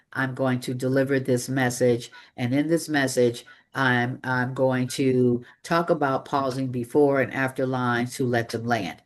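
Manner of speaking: one flat tone, no inflection; monotone demo. Shown as a demonstration. Coach showing a dull presenter, in a monotone. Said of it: "You see the difference?".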